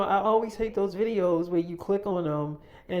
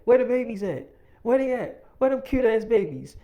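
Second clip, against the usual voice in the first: higher, louder imitation of an eager friend; excited greeting; 6 semitones higher, 7 dB louder than usual. Woman opening the door looking for babies, excited. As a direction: call out eagerly for the little ones.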